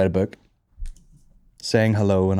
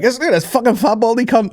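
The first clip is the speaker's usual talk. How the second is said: mock insult; 12 semitones higher, 4 dB louder than usual. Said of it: "I'll be like".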